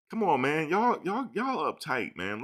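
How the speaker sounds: high-pitched pleading protest to viewers; playful protest. Real, not acted. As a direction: push the voice way up in protest.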